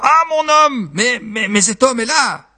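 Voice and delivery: very high wife's exclamation; high, stammered outcry; crying out. Acted. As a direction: cry out in alarm to the husband. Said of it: "Et la femme s'écria".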